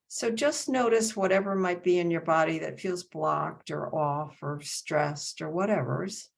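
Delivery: unhurried meditation guidance with long pauses; guided meditation. Acted. Teacher settling the group into meditation, unhurried guiding voice. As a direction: guide them gently into the body, phrase by phrase.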